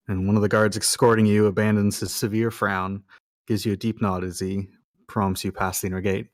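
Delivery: measured game master read-aloud; scene narration. Acted. Game master sets the underground scene for players, measured narration.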